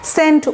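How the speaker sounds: সেন্ট with an s sound and short e; pronunciation demo. Shown as a demonstration. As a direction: say সেন্ট clearly, as in percent. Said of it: "সিইএনটি কি বলেন তো".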